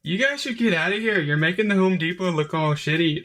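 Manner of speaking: put-on lightly done thick Mexican accent. Mexican character telling the college grads to leave, in a mock Mexican accent. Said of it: "he says in this super thick accent".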